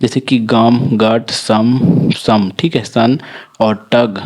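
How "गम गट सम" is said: गम, गट, सम with an "uh/ah" vowel. Shown as a demonstration. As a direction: say the U in गम, गट, सम as short "ah". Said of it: "आ हो जाता है".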